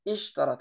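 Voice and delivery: Ishtarat opened on a distinct i sound; clear initial i. Shown as a demonstration. Teacher stresses the initial i of Ishtarat. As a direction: say the i of Ishtarat fully. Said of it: "on dit bien i".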